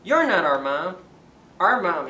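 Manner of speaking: loud gosling shout; screaming. Acted. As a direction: shout at the wolf through the door. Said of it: "he screamed".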